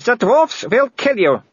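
high, slow, menacing noblewoman; Baroness voice. A narrator's reading. Baroness warning Sybil, slow and menacing. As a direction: lay the threat out slowly from above.

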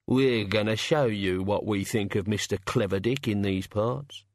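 a mild threatening drawl; menacing rustic god. Acted. God threatening the dead philosopher, mildly menacing.

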